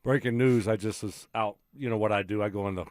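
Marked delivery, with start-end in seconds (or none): 0.0-1.6 quiet, secretive news tip; hushed gossip. Acted. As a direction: lean in and share a secret. Conspiratorial breaking news gossip.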